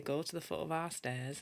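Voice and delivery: put-on a light Yorkshire accent on the old saying. Shown as a demonstration. Host demos her Yorkshire accent to viewer Lee, lightly done. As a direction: show off a proper Yorkshire voice, lightly. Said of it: "So I can talk like this".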